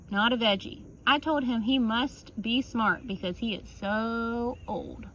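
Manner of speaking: usual speaking voice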